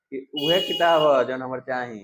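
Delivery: lightly voiced Bhojpuri "उहे किताब है जो हमर चाही"; a hint of Bhojpuri, casual; Bhojpuri phrasing. Shown as a demonstration. Teacher switching to Bhojpuri to show insistence, lightly. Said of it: "Bhojpuri में बोलते हैं वैसे".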